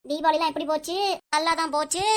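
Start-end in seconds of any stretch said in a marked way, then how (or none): 1.3-2.0 lightly dragged-out reply; mildly teasing, lengthened syllables; drawn-out words. Acted. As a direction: stretch the answer out a little. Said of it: "ஏன்டி இந்த இழு இழுக்கிற?".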